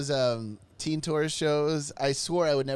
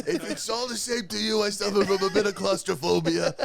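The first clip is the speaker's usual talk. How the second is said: put-on prim kid voice; 6 semitones higher, 4 dB louder than usual.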